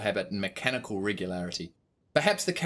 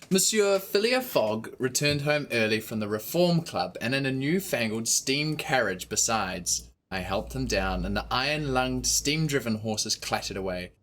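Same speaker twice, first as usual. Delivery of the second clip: measured storybook reading; story narration. A narrator's reading. Narrator reading Passepartout's account. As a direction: read it like an audiobook.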